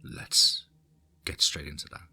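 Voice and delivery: eerie hushed whisper. Acted. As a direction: breathe it like a secret. Teaser before the story.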